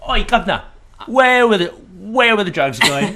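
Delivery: high, loud cockney-ish mock Batman, slowing; a hammed-up failed Batman voice; silly Batman voice attempt. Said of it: "a sketch where he's trying to find his voice".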